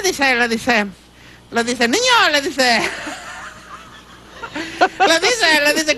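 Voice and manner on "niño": teacher calling. Acted. Teacher calls the boy in joke.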